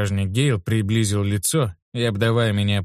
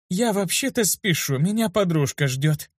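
tossed off; 7 semitones higher than usual. A narrator's reading. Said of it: "бросила Виста".

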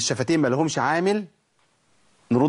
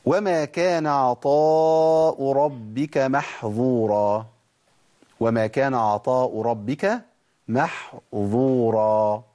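slow chanted Quran recitation with a heavy ẓ in محظورا; 2 semitones lower, much slower than usual. Shown as a demonstration. A teacher recites the verse slowly to show the ẓ. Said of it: "دي بالظاء".

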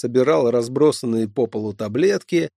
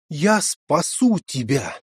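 exclaiming; 4 semitones higher than usual. Acted. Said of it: "воскликнул порядочный молодой человек".

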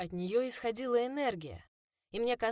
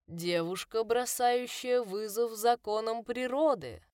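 eldritch horror; 2 semitones higher, 3 dB louder, slower than usual. Acted. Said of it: "скрипучий нечеловеческий голос".

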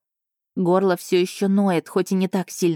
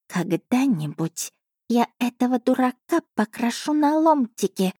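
higher cat voice, scornful snort; 7 semitones higher than usual. Acted. The cat Asha scoffing at the beast, higher and scornful. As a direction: sniff at the fool with contempt. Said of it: "фыркнула Аша".

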